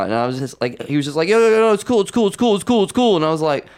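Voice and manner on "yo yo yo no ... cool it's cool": high-pitched imitation of frantic reassurance; hasty placating. Caught comic to the host outside, hastily placating. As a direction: rattle off repeated reassurances, higher and insistent.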